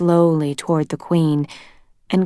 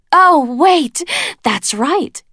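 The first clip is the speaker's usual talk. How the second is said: high, mocking surprise; mock realisation; 9 semitones higher, 4 dB louder, much slower than usual. A narrator's reading. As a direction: fake a sudden realisation. Queen feigning realisation.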